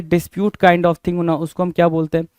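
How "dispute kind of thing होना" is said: slow, deliberate repeat of Dispute kind of thing होना; teacher repeating slowly. Shown as a demonstration. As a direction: spell the meaning out slowly for the class. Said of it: "क्या होना भाई?".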